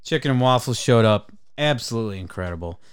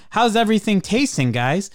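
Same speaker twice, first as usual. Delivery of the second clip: higher, sing-song waitress; chirpy server check-in; 9 semitones higher, 3 dB louder than usual. Retold or imitated. Mocking waitress asking too soon, chirpy.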